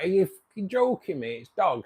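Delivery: guy realising he ate dog, mock shocked yell; retold shocked outrage. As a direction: act out a stranger's horrified surprise. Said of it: "He was like".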